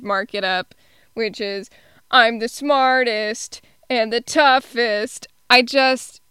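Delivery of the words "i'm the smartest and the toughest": slow, lightly voiced boast; Luigi. Quoting a favorite first line, lightly mimicked boast. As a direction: stretch out the words in a mock brag. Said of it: "the way that Luigi says it".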